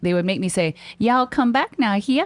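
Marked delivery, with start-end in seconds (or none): 1.0-2.3 put-on high Missouri country twang. Recalling what people made them say after moving from Missouri: imitating a Missouri twang. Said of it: "we had a twang".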